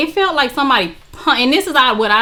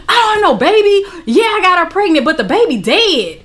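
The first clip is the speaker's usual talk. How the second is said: higher-pitched mock confession; imagined boyfriend confessing; 6 semitones higher than usual. Boyfriend owning up about the baby, imitated protest. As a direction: imitate his explanation, high then dropping.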